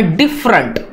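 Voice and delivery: डिफरेंट with a stronger "dif", light ending; डिफरेंट said DIF-rənt, the end reduced; stress on first syllable. Shown as a demonstration. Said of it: "इसको थोड़ा सा ज्यादा sound में".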